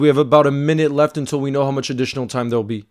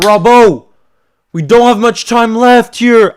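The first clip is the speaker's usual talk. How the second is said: higher, louder, slow urgent call; urgent shout; 6 semitones higher, 6 dB louder, slower than usual. Real, not acted. Fan urging Robbo as time runs out, loud urgent call. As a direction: push him, the clock is running out.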